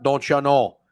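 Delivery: put-on a light Minnesota accent, teasing. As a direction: toss it off in a mild Minnesota accent. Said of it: "a little Minnesota accent".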